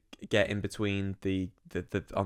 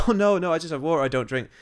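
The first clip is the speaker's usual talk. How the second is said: higher, louder, brightly innocent; answering the guy at the bar, innocently higher and louder; innocent reply; 7 semitones higher, 6 dB louder than usual. Retold or imitated. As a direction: play it sweet and harmless, pitched up. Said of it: "I was like".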